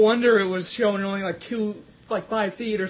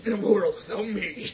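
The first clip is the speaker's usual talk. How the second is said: movie trailer voice. Retold or imitated. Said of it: "The movie announcer guy".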